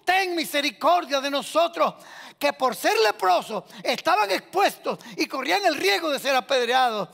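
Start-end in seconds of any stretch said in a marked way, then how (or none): 0.0-2.0 high cry for mercy. Acted. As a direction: shout the name, then plead. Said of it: "Pero ellos gritaron fue".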